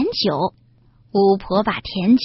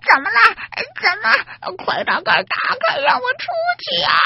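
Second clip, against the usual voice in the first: shouting; 11 semitones higher than usual. A narrator's reading. Witch locked in box yelling.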